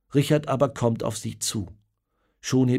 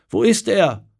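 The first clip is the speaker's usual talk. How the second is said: high, loud, anguished cry; desperate calling out; 7 semitones higher, 7 dB louder than usual. Acted. Old mother asks the returning soldiers about her son, calling out desperately. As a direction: call out to the men in despair. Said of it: "ruft sie zu den Männern".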